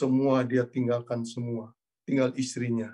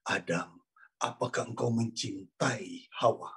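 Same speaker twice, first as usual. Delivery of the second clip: voice of God; 3 semitones lower, 4 dB quieter than usual. Retold or imitated. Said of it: "Tuhan tanya pada Adam".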